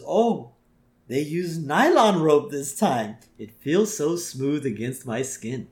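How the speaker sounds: a hint of character voice, drawn out; Apu. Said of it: "back to Apu".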